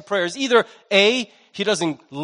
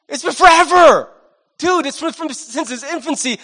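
retold father; 6 semitones higher than usual. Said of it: "this father's voice".

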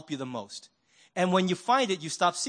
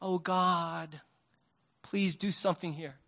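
pleading prayer; 2 semitones lower, 7 dB quieter than usual. Shown as a demonstration. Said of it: "you're like".

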